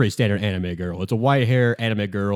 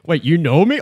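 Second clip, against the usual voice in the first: excited fan; 7 semitones higher than usual. Retold or imitated. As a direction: gush like a starstruck fan, stretching the words. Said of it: "to act a little bit like".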